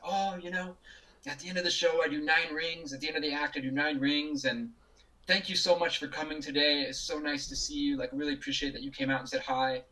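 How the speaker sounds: lightly voiced kind performer, gently polite; a hint of a gracious star thanking a fan. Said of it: "And he said".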